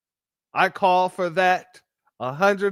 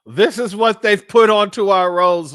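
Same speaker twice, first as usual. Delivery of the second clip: raised, louder voice at the camera; indignant outburst; 3 semitones higher, 6 dB louder than usual. Real, not acted. Host venting to his audience about the drivers, raised indignant voice. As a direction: let the outrage push the volume up.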